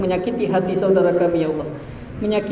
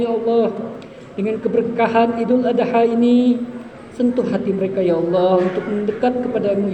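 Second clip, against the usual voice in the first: heartfelt prayer. Real, not acted. Mosque prayer after Eid sermon.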